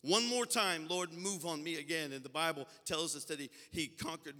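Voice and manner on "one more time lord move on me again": quoted prayer, pleading with force; urgent repeated plea. Retold or imitated. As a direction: push the repeated prayer out harder.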